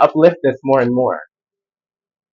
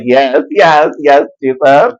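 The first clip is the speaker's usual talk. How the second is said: excited yes; 2 semitones higher, 5 dB louder, slower than usual. Retold or imitated. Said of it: "And she's like".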